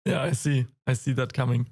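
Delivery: hoarse, raspy voice; worn-out raspy throat. Real, not acted. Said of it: "I have a raspy voice today".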